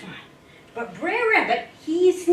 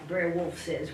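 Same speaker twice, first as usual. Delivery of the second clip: ordinary delivery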